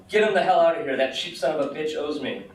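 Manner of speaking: put-on a touch of an old man's outrage, read aloud; angry yelling old man. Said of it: "The man continued to yell".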